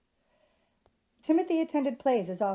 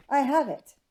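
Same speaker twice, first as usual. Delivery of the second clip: bright, loud proclamation, pitched up; proclaimed; 4 semitones higher, 6 dB louder than usual. A narrator's reading. Suitor jumping up with an idea, proclaiming it loudly. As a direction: announce the idea with a leap. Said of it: "he proclaimed".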